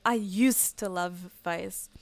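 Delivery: slow, drawn-out "I used to love Vice."; a lightly mocking slow "I used to love Vice."; mocking people. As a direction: mimic the nostalgic fans with a slow drag. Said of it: "I meet so many people that keep saying just".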